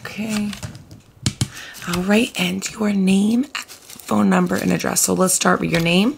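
lightly voiced friendly receptionist. Receptionist asks details.

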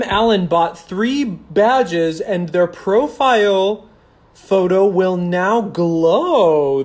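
loud, drawn-out badge announcement; slow, emphatic hype; mock announcement. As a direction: stretch it out slowly like a grand reveal. Livestream badge thank-you, drawn out.

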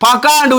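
பகாண்டு said with k in the middle instead of h; learner's hard-k slip on பகாண்டு; common mispronunciation. Retold or imitated. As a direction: put a hard k inside பகாண்டு. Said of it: "உச்சரிக்கிறீங்க".

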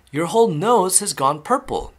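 high, loud alarm; father's shout. A narrator's reading. Father alarmed at Violet's nose, shouting. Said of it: "shouted Mister Beauregard".

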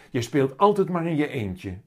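mildly annoyed reproach; a bit cross. A narrator's reading. Mama chides Willem for always playing alone, a bit cross. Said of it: "zegt mama een beetje boos".

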